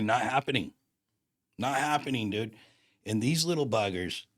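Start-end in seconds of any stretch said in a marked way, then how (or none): 0.0-2.6 firm, mildly heated refusal; retold anger. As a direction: put your foot down, a touch higher. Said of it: "I got raging mad".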